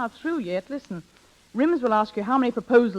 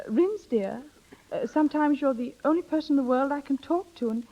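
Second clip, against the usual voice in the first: coached tender confession; 5 semitones higher than usual. Acted. Friend rehearsing the line Bobby should tell Rims, tender. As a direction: confide it as if he's all you have. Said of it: "turn your face away and say".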